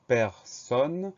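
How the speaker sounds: "personne" drawn out as two syllables, per, sonne. Shown as a demonstration. Spelling teacher breaking down the word, "personne" slowly syllable by syllable. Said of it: "Première syllabe".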